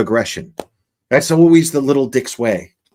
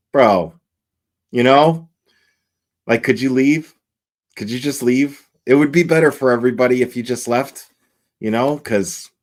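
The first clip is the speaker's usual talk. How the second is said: lightly voiced pride brushing off shame; personified pride's disdain. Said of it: "pride's just looking at the shame like".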